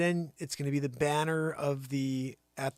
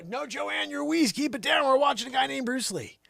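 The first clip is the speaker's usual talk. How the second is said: high, louder scold; hushing a noisy coworker; 11 semitones higher, 6 dB louder than usual. Acted. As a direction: tell her off mid-show. Scolding Joanne during demo.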